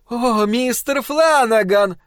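slow, high booming woman's voice; big wife rumbles at her husband; rumbling. Acted. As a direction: rumble it out scornfully. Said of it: "пророкотала она".

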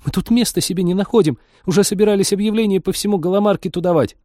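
high, agitated woman's complaint; upset complaint. Acted. Worried cat owner to the returned pilot, upset.

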